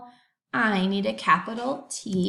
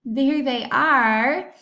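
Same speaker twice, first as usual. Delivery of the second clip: excited reveal; 3 semitones higher, 5 dB louder, much slower than usual. Real, not acted. Showing the class the shoes.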